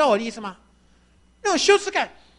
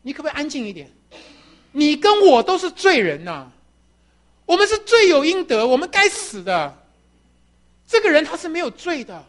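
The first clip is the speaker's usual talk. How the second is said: scolding rebuke; 4 semitones higher, 5 dB louder than usual. Acted. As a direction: tell the other robber off hard. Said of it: "你就去骂那个人".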